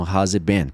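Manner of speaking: "it" without its T, linked to "been"; everyday "it been" with silent T in "it"; native dropped T. Shown as a demonstration. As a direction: run "it" into "been", no T. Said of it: "assim que os nativos vão falar".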